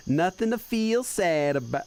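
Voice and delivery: put-on Southern accent, belle manner. Streamer translating a game line as a Southern Belle. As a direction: lightly attempt a Southern belle. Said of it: "Southern Belle voice".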